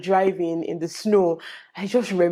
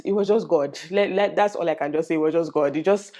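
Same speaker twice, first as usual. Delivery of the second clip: ordinary delivery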